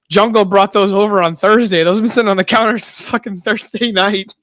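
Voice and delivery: high, laughing as he tells the punchline; barely holding in the laugh; laughing through it. Retold or imitated. Friend reveals funny punchline.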